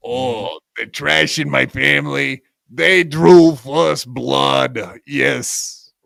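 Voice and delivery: lightly put-on aggrieved voice, drawn out; mock a wronged man, stretching the words; mocking Stuttering John and Chad Zumach. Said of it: "You sound just like Stuttering John and Chad Zumach".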